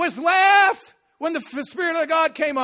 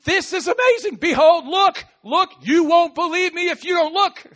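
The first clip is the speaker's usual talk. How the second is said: excited urging; 4 semitones higher, 5 dB louder than usual. Acted. Urging someone to look.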